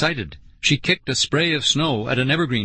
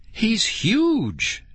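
high, awed exclamation; amazed cry, pitch way up; 10 semitones higher than usual. A narrator's reading. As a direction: marvel at it with a high voice. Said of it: "she cried in amazement".

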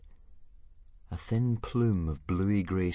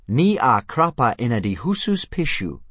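loud, high dragon-language phrase; high, loud demonstration of Dragonese; shrill Dragonese; 5 semitones higher, 7 dB louder than usual. A narrator's reading. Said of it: "punctuated by shrill shrieks and popping noises".

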